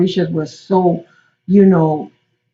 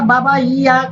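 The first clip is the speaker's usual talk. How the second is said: higher, pleading "Baba, yeah"; "Baba, yeah" in a light young voice; Oshun's plea; 5 semitones higher than usual. Acted. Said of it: "So Oshun said".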